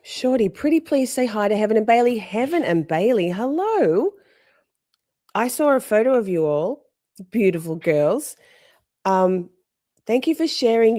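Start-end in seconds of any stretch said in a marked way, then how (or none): 0.0-7.8 higher, sing-out hello; sweet greeting. Real, not acted. Streamer saying hi to a viewer's girls, sweetly.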